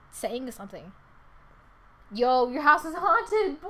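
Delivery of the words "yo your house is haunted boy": slow, loud, laughing outburst; spooked exclamation. Real, not acted. Player reacting to a haunted house, amused alarm. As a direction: stretch it out with a laugh.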